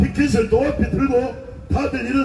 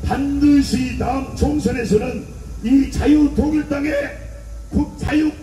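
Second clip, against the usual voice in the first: preaching at full force to a crowd; fiery rally speech. Acted. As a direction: hammer each line out to a street rally.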